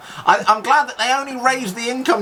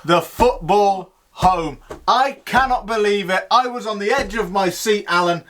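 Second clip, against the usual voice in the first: excited sports commentator. Acted. Jubilant commentator calling the win.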